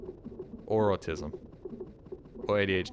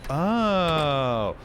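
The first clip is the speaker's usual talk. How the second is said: surprised; 5 semitones higher, 5 dB louder than usual. Real, not acted. Sudden exclamation at chat.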